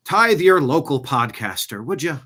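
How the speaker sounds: slow, lightly lilting Irish; mock Irish podcaster plea; put-on Irish accent. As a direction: slip into a playful Irish accent. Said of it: "I don't know why you went Irish".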